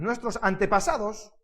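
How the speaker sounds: measured, deliberate reading aloud; scripture reading. Acted. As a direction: read the verse out clearly to a congregation. Reads Bible verses aloud. (lectura bíblica solemne y pausada)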